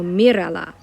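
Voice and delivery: "mírala" with the first syllable punched; stress on first syllable. Shown as a demonstration. Teacher showing where the accent goes, first syllable of "mírala" stressed. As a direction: hit the opening "mí" of "mírala", let the rest fall. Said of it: "put an accent on what used to be the next to last syllable".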